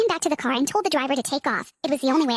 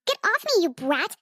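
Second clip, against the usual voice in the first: angry shout; 2 semitones higher, slower than usual. Acted. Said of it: "I shouted at her".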